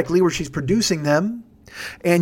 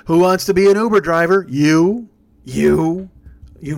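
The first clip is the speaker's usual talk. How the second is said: game show host shout; 5 dB louder, slower than usual. Pretend. Mock giveaway host shouting.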